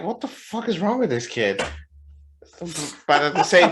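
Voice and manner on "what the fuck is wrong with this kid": high-pitched baffled exasperation; played-up amazed question; retold incredulity. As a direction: wonder at the kid in mock disbelief. Retold thought about the kid.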